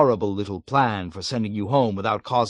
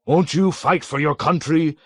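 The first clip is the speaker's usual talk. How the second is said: harsh, higher, louder mimicry of his boss; mock self-righteous; 7 semitones higher, 6 dB louder than usual. A narrator's reading. Deputy mockingly imitating his commander to the captain. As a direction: ape the colonel's pompous harshness. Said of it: "emulating Colonel Cathcart's harsh, self-righteous tone".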